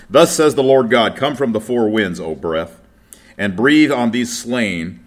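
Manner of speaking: solemn public reading of scripture. Acted. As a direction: read the passage out to the congregation. Reads Ezekiel aloud.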